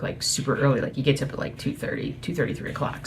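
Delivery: hushed so the husband sleeps; quiet at night. Real, not acted. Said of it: "I'm speaking kinda quietly".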